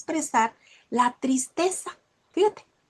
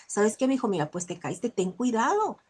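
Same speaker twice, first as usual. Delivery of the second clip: gentle mother; 4 dB quieter than usual. Retold or imitated. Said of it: "ser empáticas y enseñarle al niño".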